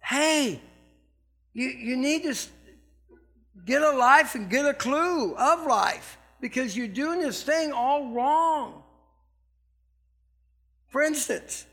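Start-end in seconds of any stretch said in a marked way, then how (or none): 0.0-8.8 Paul scolding. Retold or imitated. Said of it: "he's trying to tell these guys".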